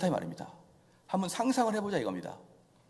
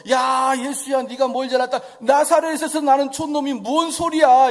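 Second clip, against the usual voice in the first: mocking jeer; 5 semitones higher, 8 dB louder than usual. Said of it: "주님한테 항변하자".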